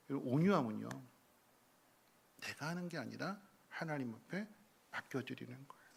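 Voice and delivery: ordinary delivery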